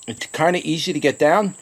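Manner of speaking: normal talking voice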